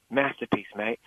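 put-on light Australian accent on "masterpiece, mate"; a quick mock Aussie accent. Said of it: "I just did an Australian accent".

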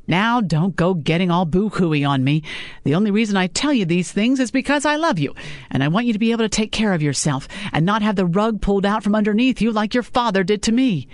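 a hint of a scolding mother; mother lecturing her daughter about men.

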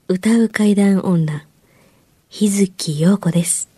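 slow hushed ghost-story intro; spooky whisper. Acted. Show intro, spooky host whisper.

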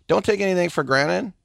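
cheering on City to win everything, hyped. Real, not acted. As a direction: fire up the crowd about winning everything. Hyping up City's win-everything approach.

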